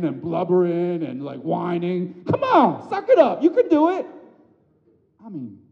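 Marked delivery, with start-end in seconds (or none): 2.3-4.0 very high, loud mocking coach yell; mock tough-love yell. Father yelling at his wobbling toddler, mock harsh. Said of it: "I'm not like".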